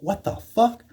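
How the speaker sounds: high, shocked yelp; sudden high squawk of disbelief; startled yelp. Retold or imitated. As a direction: blurt it like the dog just bit you. Bitten by the poodle.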